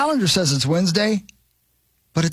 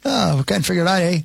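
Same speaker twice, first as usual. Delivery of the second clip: lightly put-on Canadian accent with a rising eh; a hint of a Canadian accent, teasing the store's failure; mock Canadian accent. Joking about Target failing in Canada, in a mild mock Canadian accent. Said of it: "That's a great accent".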